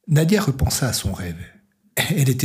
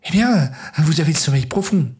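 higher-pitched, animated female figure; lively nurse; 6 semitones higher, 4 dB louder than usual. Acted. Nurse to just-woken Nadia, lively teasing remark. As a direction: exclaim it lightly in a raised voice.

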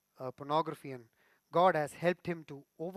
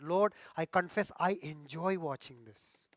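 honest confession; slower than usual. Shown as a demonstration. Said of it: "That is true confession".

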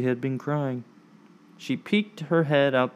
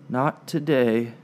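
sighing. Acted. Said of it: "Ella sighed".

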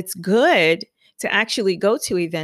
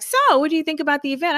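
friend's question; 9 semitones higher, much faster than usual. Retold or imitated. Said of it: "she was like".

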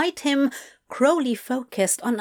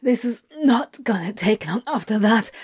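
breathy whisper, no voice; faster than usual. Acted. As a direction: whisper it close and urgent. Breathless aside in bed.

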